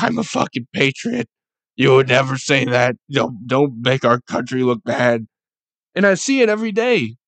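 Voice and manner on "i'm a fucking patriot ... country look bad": indignant patriot. Retold or imitated. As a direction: play an offended flag-waver, hammed up a bit. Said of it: "the next guy is like".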